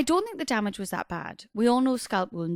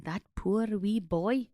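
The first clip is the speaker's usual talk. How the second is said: put-on Scottish accent; slower than usual. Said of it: "I did Scottish".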